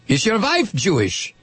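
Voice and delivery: suspicious mock German interrogator; movie German accent. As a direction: probe him in a film German accent. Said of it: "would consider a German accent".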